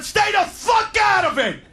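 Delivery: retold yell. Yelling at wife, retold.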